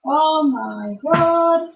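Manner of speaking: slow, drawn-out exasperation; exasperated. Real, not acted. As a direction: let it drag, fed up. Drawn-out exasperated sigh phrase.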